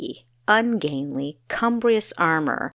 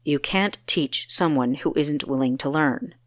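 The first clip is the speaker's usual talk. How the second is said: sharp reply; 3 semitones lower than usual. Acted. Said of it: "he replied sharply".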